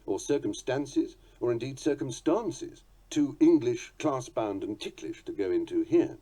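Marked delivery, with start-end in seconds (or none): 0.2-1.2 "circumstances" as circum-STAN-ces, A as in cat; short open A in the "stances" of "circumstances". Shown as a demonstration. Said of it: "The pronunciations vary according to". 1.8-2.8 "circumstances" as circum-STAHN-ces; long "ah" in the "stances" of "circumstances". Shown as a demonstration. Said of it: "The pronunciations vary according to".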